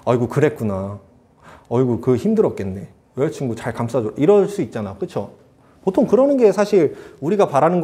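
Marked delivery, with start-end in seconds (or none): 0.0-4.1 low, soft motherly comforting; sympathetic mother. Retold or imitated. Mother comforting her wronged son, gently sympathetic. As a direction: soothe an upset son, voice dropped low.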